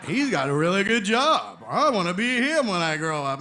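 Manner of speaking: put-on loud, excited wide-eyed kid; kid's thought. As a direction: voice a child's awestruck ambition. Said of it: "And I wa-, I thought".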